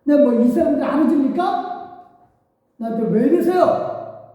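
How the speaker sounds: exasperated sighing plea; Moses lamenting. Acted. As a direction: plead in frustration to God. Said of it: "모세도 탄식을 하는 거예요".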